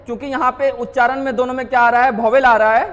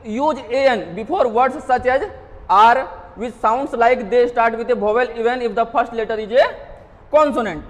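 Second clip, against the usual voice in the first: slow rule reading; much slower than usual. Shown as a demonstration. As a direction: read the English rule very slowly. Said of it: "reading the rule aloud".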